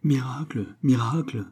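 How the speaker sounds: whispered mock cry of miracle; imitating the devout women's shouts under his breath; mock village cries. Priest mimicking the village women, whispered mock cry. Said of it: "J'entends déjà ces cris".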